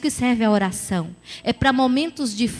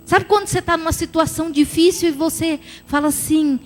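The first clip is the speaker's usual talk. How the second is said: ordinary delivery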